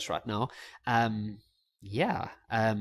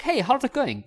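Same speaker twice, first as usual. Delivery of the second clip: high-pitched, overeager greeting; hammed-up, over-the-top hello; too much energy; 11 semitones higher, 4 dB louder than usual. Guy walking up to a girl, overdoing the energy. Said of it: "that's a bit too much".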